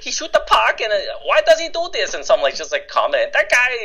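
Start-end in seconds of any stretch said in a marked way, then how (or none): 0.0-2.1 high, loud, baffled mock Asian accent; exaggerated Asian accent, squeaky-high bewilderment; Asian immigrant accent. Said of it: "I played this Asian guy". 3.3-3.8 high-pitched mock Asian accent; quick burst of put-on Asian accent; Asian immigrant accent. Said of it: "I played this Asian guy".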